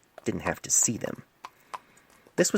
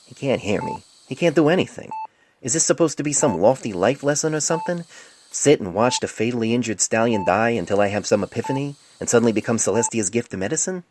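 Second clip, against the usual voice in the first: frustrated rant; 4 semitones higher, 3 dB louder than usual. Acted.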